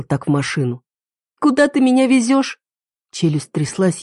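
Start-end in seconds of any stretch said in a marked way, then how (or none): 1.4-2.6 высоко, дрожа от страха; спроси в ужасе; испуганный вопрос. A narrator's reading. Связанная героиня в ужасе. (испуганный вопрос связанной героини)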